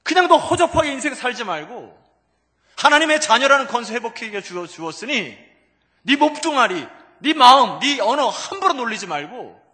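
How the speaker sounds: very loud, high preaching; divine exhortation. Acted. Lord charging his child to live worthily, loud high exhortation. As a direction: drive each phrase home at full force. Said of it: "그런 것 같아요".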